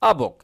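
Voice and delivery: 'A book' joined as one word; linked together. Shown as a demonstration. Teacher showing learners linking, 'A book' as one word. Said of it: "একসঙ্গে মিলিয়ে নেব".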